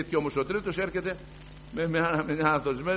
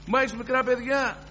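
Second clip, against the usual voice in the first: high, louder quoted protest; pleading objection; 11 semitones higher, 6 dB louder than usual. Retold or imitated. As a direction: raise the voice in alarm. Quoting a worried objection. (ανήσυχη ένσταση, πιο ψηλά και δυνατά)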